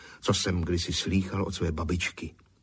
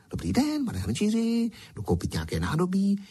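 put-on high, chirpy girl's greeting; chirping girl; 12 semitones higher than usual. Girl greets the potter, chirping high. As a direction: chirp it out like a bright young girl. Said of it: "zaštěvetala".

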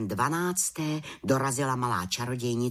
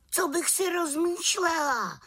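much higher, eager protest; high startled little witch; young witch crying out. A narrator's reading. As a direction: fling back the question, indignant and bright-eyed. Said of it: "vykřikla malá čarodějnice".

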